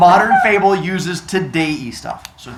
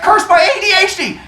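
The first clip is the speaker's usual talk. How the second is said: mock dramatic curse; 5 dB louder than usual. Rabbit cries out, realizing he's losing.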